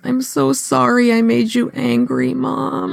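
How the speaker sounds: high, sweet little-boy imitation; genuinely sorry child. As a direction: voice a kid's heartfelt apology. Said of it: "he was so genuine".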